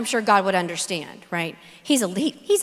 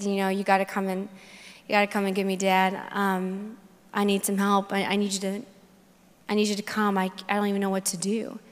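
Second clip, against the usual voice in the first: quiet plea; 3 semitones lower, 5 dB quieter than usual. Retold or imitated. Retold desperate call to dad.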